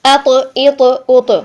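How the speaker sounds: अ तो, इ तो, उ तो full-mouthed with a bounced त; thick bouncing त; full-mouthed qalqala. Shown as a demonstration. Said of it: "मुंह में भरी हुई आवाज़". (मुंह भरी कलकला)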